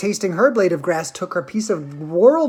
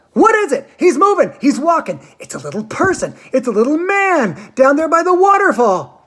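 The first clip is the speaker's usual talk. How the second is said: much higher and louder, breathless alarm; excited shrieking; 8 semitones higher, 5 dB louder than usual. A narrator's reading. Veruca shrieking to the group about the little man. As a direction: keep shrieking as you spot him.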